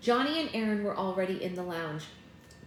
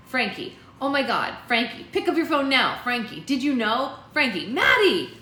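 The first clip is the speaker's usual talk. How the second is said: loud, high, urgent outburst; panicked gossip building to a yelled name; frantic friend; 5 semitones higher, 9 dB louder than usual. A narrator's reading. Acting out frantic friend's texts.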